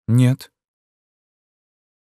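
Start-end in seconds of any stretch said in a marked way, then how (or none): 0.1-0.5 higher, toneless-minded recited answer; strange tone. A narrator's reading. Woman denies knowing the man, in a strange tone. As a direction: answer as if by rote. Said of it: "странным тоном".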